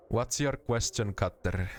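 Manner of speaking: lightly put-on Finnish accent. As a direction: ask it like a rally Finn. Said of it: "What if I gave him a Finnish accent?".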